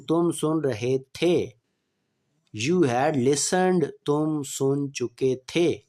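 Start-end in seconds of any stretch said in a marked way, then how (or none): 2.7-3.8 slow, clear dictation pace; slow classroom example sentence; slow example read. Shown as a demonstration. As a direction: spell it out slowly for students. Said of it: "teacher reading tense example".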